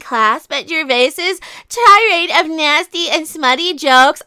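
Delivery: mock-prim activist reading aloud; lightly voiced SJW caricature. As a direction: read it out as a put-on social justice warrior. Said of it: "read this in the S J W voice".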